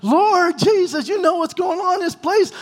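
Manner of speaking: imitating fervent prayer. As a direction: pray as if nothing else is happening. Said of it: "He's like this".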